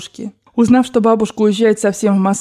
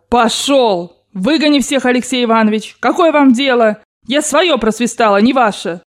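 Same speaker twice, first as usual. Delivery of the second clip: outraged yelling; 3 semitones higher than usual. Acted. Grandmother expelling the General and relatives, indignant cry. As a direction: throw them all out angrily. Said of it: "завопила бабушка генералу".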